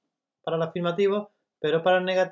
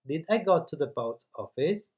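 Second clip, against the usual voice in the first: slow model question; slower than usual. Shown as a demonstration. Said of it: "Y luego la frase normal".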